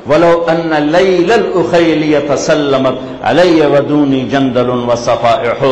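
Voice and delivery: measured, metrical poetry recital; Arabic verse recitation. Acted. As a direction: recite the classical verse in even cadence. (عربی شعر خوانی)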